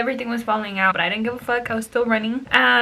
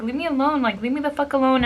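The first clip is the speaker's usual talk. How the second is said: higher-pitched exasperated protest; retold protest; 4 semitones higher, faster than usual. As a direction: re-enact telling someone to back off. Retold protest to a harassing man.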